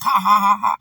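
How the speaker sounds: loud spelt-out belly laugh; hammed-up "ha ha ha" burst; mock laugh. Telling viewers about a real funny moment, mock laugh. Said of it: "I'm just like".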